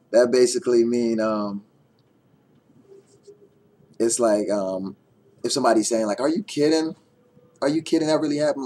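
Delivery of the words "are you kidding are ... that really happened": higher, louder acted disbelief; mock disbelief. Explaining the saying by acting a stunned friend, mock disbelief. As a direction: play someone who can't believe the news. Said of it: "it's like they can't believe something".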